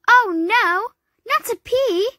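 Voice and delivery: high, loud horrified gasp. A narrator's reading. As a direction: everyone gasping in horror at once. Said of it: "everyone gasped".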